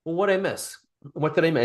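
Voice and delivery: curious follow-up. Shown as a demonstration. Coach acting out a curious follow-up to the partner. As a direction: ask what you missed.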